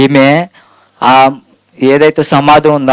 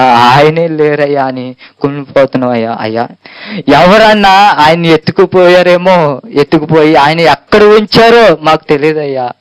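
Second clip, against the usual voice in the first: sorrowful pleading. Acted. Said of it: "అని బాధతో అండి".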